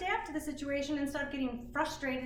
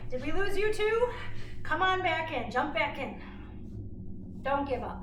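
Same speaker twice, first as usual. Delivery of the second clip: calling out; 3 semitones higher, 4 dB louder than usual. Real, not acted. Calling after daughter who dropped out.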